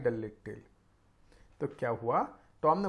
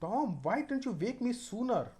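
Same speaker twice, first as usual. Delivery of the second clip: worried brother; 4 semitones higher, 3 dB quieter, much slower than usual. Acted. Sid worried, reading slowly.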